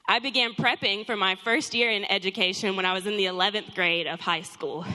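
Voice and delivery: breathless, catching her breath; winded talking between breaths. Real, not acted. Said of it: "I'm still out of breath".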